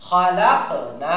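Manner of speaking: very slow "খালাক না" with bounced k and long "না"; qalqalah and madd. Shown as a demonstration. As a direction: bounce the k of "খালাক", then stretch "না". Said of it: "আলিফ মাদ".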